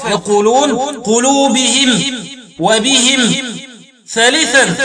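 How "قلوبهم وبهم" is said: "قلوبهم" and "وبهم" ending in -him; i after h, stop on m in "قلوبهم" and "وبهم"; kasr ha, still mim. Shown as a demonstration. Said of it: "وقرأوا بإسكان الميم وكسر الهاء وقفا".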